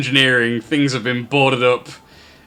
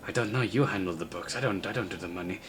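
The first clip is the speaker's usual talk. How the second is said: soft, lower goblin reply; hushed aside; 4 semitones lower, 10 dB quieter, faster than usual. Acted. Second goblin disowns the money books, hushed. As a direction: answer under your voice, quick at the end.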